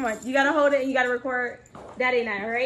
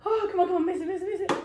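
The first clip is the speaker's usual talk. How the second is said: teasing cheer; 7 semitones higher, much faster than usual. Real, not acted. Mom cheering against dad's shot.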